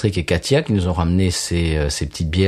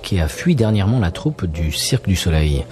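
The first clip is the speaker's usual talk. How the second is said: voix d'annonce publicitaire. Acted. Lit une fausse pub.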